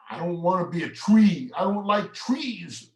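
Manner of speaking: put-on high, whiny little kid protesting; upset little boy. Storyteller voicing upset boy, high and whiny.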